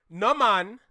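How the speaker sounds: corrective Caribbean "Nah, man", open vowel on "man"; proper Caribbean accent. Shown as a demonstration. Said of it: "you didn't even say it right".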